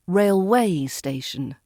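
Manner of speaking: railWAY station, second syllable stressed; railway station with a light rail and a drawn-out way. Shown as a demonstration. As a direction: put the weight on "way" in railway station. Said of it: "Don't say it the wrong way round".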